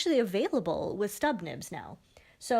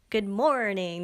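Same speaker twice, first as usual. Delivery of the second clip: second good morning try; slower than usual. Shown as a demonstration. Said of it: "No, that doesn't work".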